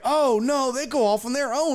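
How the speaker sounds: high, airy mock reply; imitated country lady. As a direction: lightly dismiss his worry in a put-on high voice. Woman's reply in mimicked exchange.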